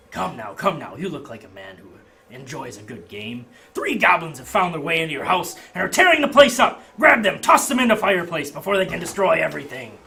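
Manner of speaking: loud, high pitch for the game; carnival barker. Acted. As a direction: sell the game with gusto.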